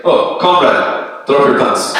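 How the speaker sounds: slow, hammed-up Russian accent; mock Russian accent. Comic imitating his Russian-born urologist, slow mock Russian accent. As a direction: drawl comrade in a joke Russian accent.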